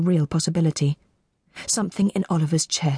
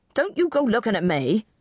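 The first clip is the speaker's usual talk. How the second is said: higher, lightly protesting plea; agitated pleading; 5 semitones higher than usual. A narrator's reading. Broad man to onlookers, mildly pleading. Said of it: "he pleaded to the newest rows of onlookers".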